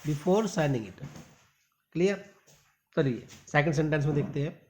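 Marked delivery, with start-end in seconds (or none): 0.1-1.1 very slow reading of "Read the entire contract", word by word; slow model reading. Shown as a demonstration. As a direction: spell it out slowly for learners. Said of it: "teacher models the sentence". (धीमे-धीमे पढ़कर दिखाना)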